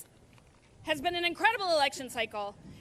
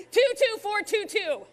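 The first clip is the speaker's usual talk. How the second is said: loud dictation; 4 semitones higher, 3 dB louder than usual. Real, not acted. Dictating number loudly.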